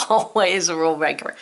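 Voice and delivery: chuckling, "Always a rule breaker" said through a laugh. Real, not acted. Teacher amused by a tricky spelling, laughing. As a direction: laugh at the word's rebellious spelling.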